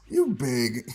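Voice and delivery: a scornful tooth suck before the jab; teeth-suck opener. Shown as a demonstration. Schoolyard roast opener, with a teeth-suck. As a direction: suck your teeth, then "You big.". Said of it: "had to suck your teeth first".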